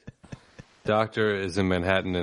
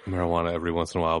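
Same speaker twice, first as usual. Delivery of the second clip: fast embarrassed mumble; rushed mumble; 3 semitones lower, much faster than usual. Retold or imitated. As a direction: rush it out sheepishly. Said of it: "And I was like".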